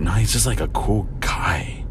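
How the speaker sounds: whispered aside. Retold or imitated. Quoting his own reply.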